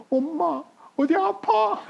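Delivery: high-pitched imitated child's question; puzzled child. Child to suddenly gentle mother, puzzled and high. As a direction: ask like a baffled kid just woken.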